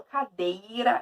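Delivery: "cadeira" with the i clearly sounded; careful full diphthong. Shown as a demonstration. Teacher showing the class the word cadeira, careful full diphthong. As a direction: say "cadeira" spelt-out, every vowel there. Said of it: "o I sumindo".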